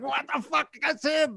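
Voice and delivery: high, stunned outburst; seeing a familiar face in a movie, shocked outburst; shocked exclamation. Retold or imitated. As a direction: blurt it out in sudden disbelief. Recognizing Vince on screen.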